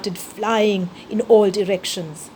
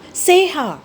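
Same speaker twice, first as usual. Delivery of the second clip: raised calling shout, higher; 7 semitones higher, 4 dB louder than usual. A narrator's reading. Mouse shouting for lost friend amid rubble, calling shout. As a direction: call her name out into the chaos. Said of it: "I shouted".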